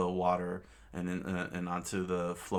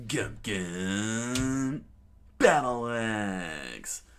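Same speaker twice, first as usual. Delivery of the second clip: drawn-out battle cry, louder at the end; Luffy attack shout; 2 semitones higher, 4 dB louder, much slower than usual. Acted. Luffy yelling his attack at the enemy, slow shout. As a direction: yell the attack name slowly. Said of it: "Luffy screamed out".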